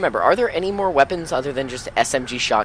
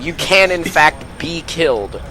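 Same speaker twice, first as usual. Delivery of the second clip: gleeful teasing; 5 semitones higher, 7 dB louder than usual. Real, not acted. Gloating after teammate's death.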